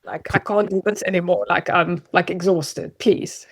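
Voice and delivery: softly spoken, tired plea; understated, worn-out begging. Acted. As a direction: plead quietly, as if too exhausted to push. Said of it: "like, begging".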